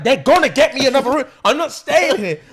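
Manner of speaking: high, loud imitation of an upset friend; mock tearful insistence. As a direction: insist in a hammed-up panic. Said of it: "big man is in tears".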